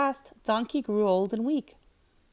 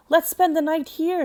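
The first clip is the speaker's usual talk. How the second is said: donkey voice; 7 semitones higher, 6 dB louder than usual. A narrator's reading. Donkey proposes rest.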